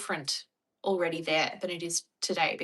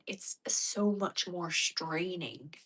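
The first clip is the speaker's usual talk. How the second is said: slow, effortful American accent; 6 dB quieter, much slower than usual. Shown as a demonstration. Australian showing the strain, slow softer American accent. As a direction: stretch it out in laboured American accent. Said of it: "when we have to use an American accent".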